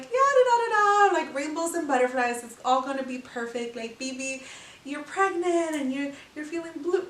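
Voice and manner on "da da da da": high, louder da-da-da; mock dreamy singsong. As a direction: tease the fairy-tale fantasy. Mocking idealized movie pregnancy.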